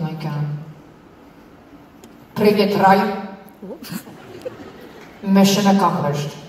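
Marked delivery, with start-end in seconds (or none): 2.3-6.4 mock Russian spy voice, louder; hammed-up Russian accent. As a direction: play a secret agent with a Russian accent. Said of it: "ask you to be Russian".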